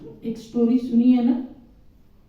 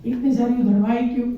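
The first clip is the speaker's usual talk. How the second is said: mock angry shopkeeper; faster than usual. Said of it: "इसको इतना गुस्सा आया".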